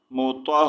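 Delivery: مطہ with the closing h pushed from the chest; careful teacher's مطہ, audible chesty h. Shown as a demonstration. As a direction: breathe out the final h of مطہ. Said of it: "ہا کی آواز سینے سے نکالنی ہے".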